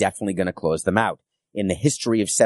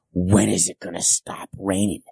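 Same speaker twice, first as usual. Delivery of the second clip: a mild imitation of a stern, angry commissioner; lightly voiced, demanding boss. Commissioner demanding answers from his team president, mildly stern and angry. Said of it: "in this stern, angry voice".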